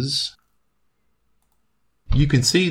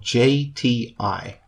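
J T I spelled letter by letter; spelling it out; 3 semitones higher, much slower than usual. Shown as a demonstration. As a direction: read each letter J T I separately. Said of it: "his first name is spelled".

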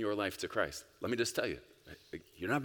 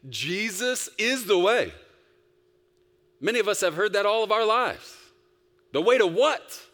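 preaching at full force; 14 semitones higher, 9 dB louder than usual. Acted. Preacher builds to a peak.

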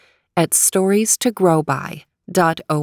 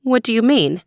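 theme park princess; 5 semitones higher than usual. Acted. Princess voiced in story.

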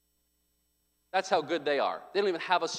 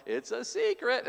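put-on toddler voice; 4 semitones higher, 4 dB quieter than usual. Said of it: "So you hear our two-year-old".

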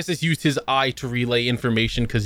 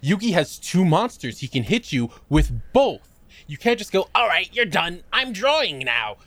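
mock angry rant; 6 semitones higher than usual. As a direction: yell at the cheating duelist. Angry rant at card game.

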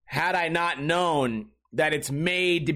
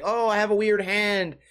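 hammed-up horror actor; 4 semitones higher than usual. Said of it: "you go like".

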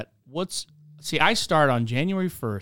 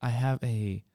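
fancy menu voice; slower than usual. Pretend. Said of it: "if they're like".

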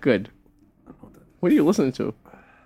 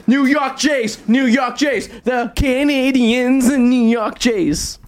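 excited cheering; 9 semitones higher, much slower than usual. Pretend. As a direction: yell it like a fan. Cheering the team's win.

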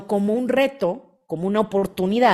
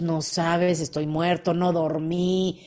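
mock weary complaint; 5 semitones lower, slower than usual. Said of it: "Le dices a tu esposa".

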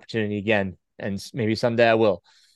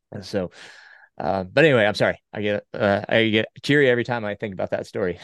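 after crying. Real, not acted. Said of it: "He is crying right now".

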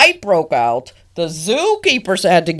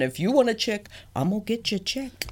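mock doting penguin; 3 semitones higher, 9 dB quieter, faster than usual. Voicing penguin partner.

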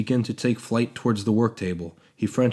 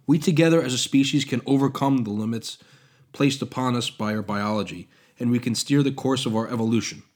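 louder, hopeful fervor; passionate zeal; 3 semitones higher, 4 dB louder than usual. Acted. Prometheus urging shared evolution, bursting with zeal. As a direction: sell the dream with zeal. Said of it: "bursting with passionate zeal".

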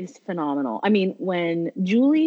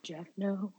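pausing quote; 13 dB quieter than usual. Retold or imitated. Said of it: "like, pausing".

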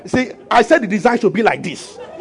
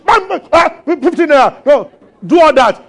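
mock quarrel; 5 semitones higher than usual. Mourners quarrelling over change money.

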